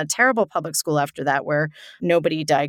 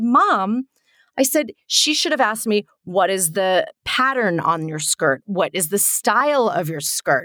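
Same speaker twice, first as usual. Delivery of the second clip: put-on indignant child; 3 semitones higher, slower than usual. Child indignantly corrects the interviewer.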